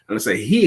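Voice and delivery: single out "he," as if it was somebody else; stress on HE. Shown as a demonstration. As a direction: lean on "he". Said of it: "it could have been somebody else".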